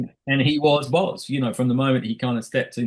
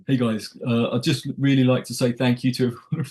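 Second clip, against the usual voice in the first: put-on normal English accent. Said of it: "in his normal, like, English accent".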